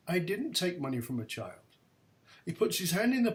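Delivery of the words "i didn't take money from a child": calm quiet denial. Retold or imitated. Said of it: "He said".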